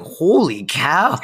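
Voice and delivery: retold shock. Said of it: "I was like".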